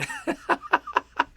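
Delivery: very high, light laughter. Real, not acted. Streamer reacts to chop the tree message, laughing. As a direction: burst into a quick high laugh.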